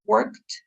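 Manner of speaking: "worked" with a crisp final T sound; teacher models "worked" with a clear final T; clear -ed ending. Shown as a demonstration. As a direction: articulate the ending of "worked" so the past tense is heard. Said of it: "you're not pronouncing the E D correctly".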